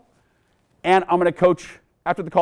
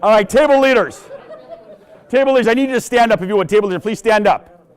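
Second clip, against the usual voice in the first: loud, raised voice to the room; addressing crowd; 6 semitones higher, 6 dB louder than usual. Real, not acted. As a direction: project over the laughter.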